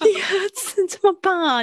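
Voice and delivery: high, impressed exclamation; excited. Real, not acted. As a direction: praise it, pitch jumping up.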